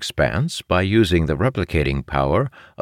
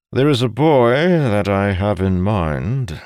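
persuading father; 6 semitones higher, 4 dB louder than usual. Acted. Voices the father making an offer.

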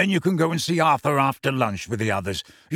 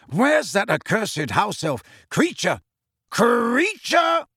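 calling out; 8 semitones higher, slower than usual. Acted. Sirius summoning the house elf, rising shout. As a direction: bellow the elf's name across the house.

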